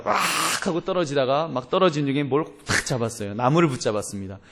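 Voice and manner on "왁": mock cry of a man falling; falling yell. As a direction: let out a short falling "waak". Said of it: "벼랑에서 떨어졌습니다".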